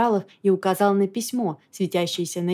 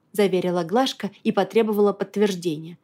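usual speaking voice

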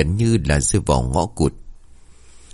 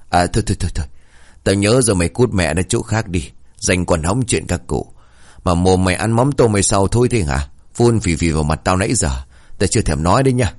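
a hint of a scolding old man; grumpy grandpa shooing the boy away; mildly irritated old man; lightly voiced cranky grandpa.

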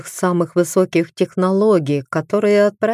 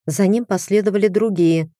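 ordinary delivery

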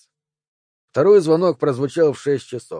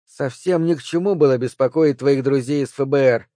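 put-on little girl voice. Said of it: "он говорил голосом маленькой девочки".

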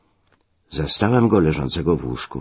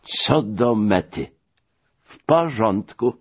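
satisfied reply; 5 semitones higher, slower than usual. Acted. Friend confirms everything was recovered.

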